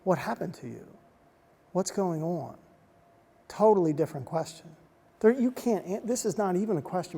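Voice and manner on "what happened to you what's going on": gentle concern. Retold or imitated. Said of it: "She shifted and said".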